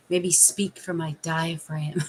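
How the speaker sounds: slightly low voice from the diaphragm. Shown as a demonstration. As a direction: drop it a little, slowing down. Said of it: "I should lower my voice".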